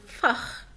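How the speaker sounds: فخ ending in a throaty "kh"; rasped CH after the A in فخ. Shown as a demonstration. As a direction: say فخ as "fakh". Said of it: "هنا آه طبعًا".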